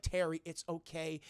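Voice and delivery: soft, slow consoling; gentle reassurance. Acted. Mom consoling her upset son, soft reassurance. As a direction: soothe quietly.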